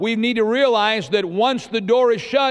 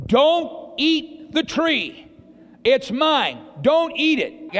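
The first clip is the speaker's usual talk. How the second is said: slow, spaced-out command, pitched up; God's command; 4 semitones higher, much slower than usual. Acted. God tells Adam and Eve about the tree, slow command. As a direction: lay down the rule deliberately, word by word. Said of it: "God says to Adam and Eve".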